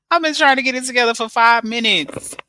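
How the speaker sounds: breathy giggling through the words; laughing. Real, not acted. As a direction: laugh it out under your breath. Laughing at her own slow setup.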